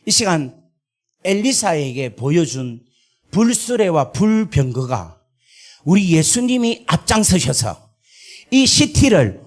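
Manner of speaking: slow, proclaiming prayer declaration; fervent prayer. Retold or imitated. Preacher retelling his prayer over Sydney, slow fervent proclamation. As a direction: call on God to take the city, drawn out. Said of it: "기도를 했어요".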